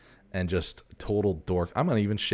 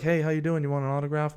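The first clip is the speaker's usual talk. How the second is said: fake friendly greeting; 8 semitones higher, faster than usual. Cop greeting a stranger.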